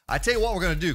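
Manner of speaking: loud salesman pitch; hard sell ad voice; used car salesman. Acted. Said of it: "Sound like a used car salesman".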